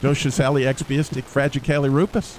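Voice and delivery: supercalifragilisticexpialidocious said backwards, syllable by syllable; backwards speech. Shown as a demonstration. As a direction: recite "Docious ali expiistic fragicali rupus" as the word reversed. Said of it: "even be able to say it backwards".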